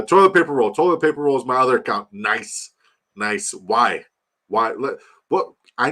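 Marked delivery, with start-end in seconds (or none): 0.0-2.1 higher louder read-out; amused read-out. Real, not acted. Streamer reading a viewer's silly account name with amused glee.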